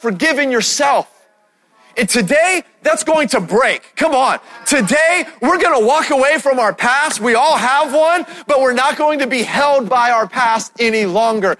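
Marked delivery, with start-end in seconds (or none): 2.0-11.6 rallying proclamation. Real, not acted. Preacher rises to rallying proclamation.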